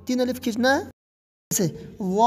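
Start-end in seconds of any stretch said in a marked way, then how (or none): 2.0-2.3 واد with a thick rounded vowel held long; long heavy واد; heavy, stretched dad. Shown as a demonstration. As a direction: start واد full, end on a bounced d. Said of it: "اور شروع میں موٹا".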